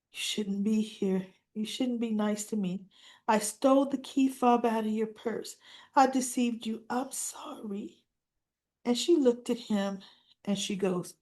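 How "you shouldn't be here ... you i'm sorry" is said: soft, remorseful admission; contrite confession. Retold or imitated. Injured boy confessing theft to the doctor, soft contrition. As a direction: confess softly, fading on the apology.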